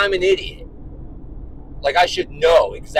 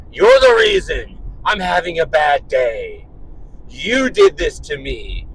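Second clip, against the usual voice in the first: mock blaming kid; 4 dB louder than usual. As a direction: imitate an accusing son. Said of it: "he starts gaslighting my ass".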